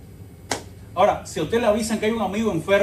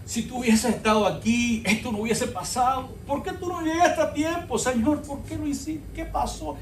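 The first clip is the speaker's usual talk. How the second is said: mock tearful plea; 5 semitones higher than usual. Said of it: "Marta llorando".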